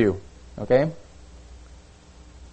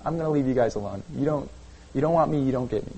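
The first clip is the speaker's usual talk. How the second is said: fed-up God; 4 semitones higher, faster than usual. Retold or imitated. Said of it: "you can be".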